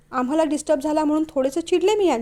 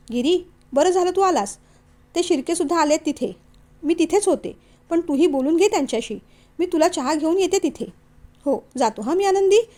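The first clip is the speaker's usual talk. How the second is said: a slightly higher, brighter-pitched sister-in-law voice; lightly voiced young wife; 4 semitones higher than usual. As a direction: read Anandi a touch higher than the narration. Narrator voices Anandi, higher.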